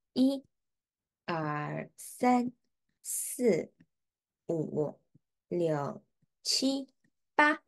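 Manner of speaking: slow, counted stroke by stroke. Shown as a demonstration. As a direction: count each stroke clearly, one by one. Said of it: "it is".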